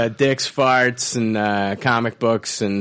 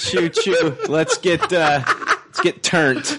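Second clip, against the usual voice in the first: rowdy party animal; 5 semitones higher, slower than usual. Acted. Laughing party hype.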